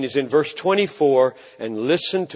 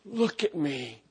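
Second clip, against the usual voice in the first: loving; 6 dB quieter, slower than usual. Acted. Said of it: "and be loving when He says it".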